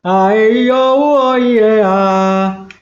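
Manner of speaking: vocalizing with a pencil in the mouth; pen in teeth. Shown as a demonstration. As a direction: sing the vowels round a pencil. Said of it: "agora eu vou do lápis na boca".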